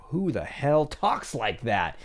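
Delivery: mock disbelief, drawn out; slow, incredulous quote; incredulous listener. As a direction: slowly voice a baffled objector. Imagined incredulous listener reaction.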